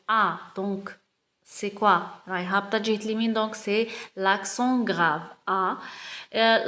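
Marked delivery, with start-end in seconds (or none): 3.3-5.2 slow reading aloud. Shown as a demonstration. Teacher reading the text aloud to pupils, very slow. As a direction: read each word very slowly. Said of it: "On va commencer".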